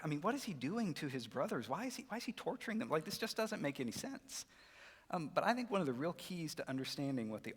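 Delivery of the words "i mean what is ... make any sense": higher-pitched mock incredulity; puzzled protest. A kid puzzling over Joseph's behavior, incredulous. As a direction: question it like a baffled kid.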